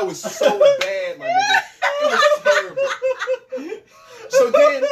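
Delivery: very high squeal through laughter; laughing hard. Real, not acted. Telling friends the worst moment, laughing hard. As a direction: crack up telling the worst part. Laughing at his own story.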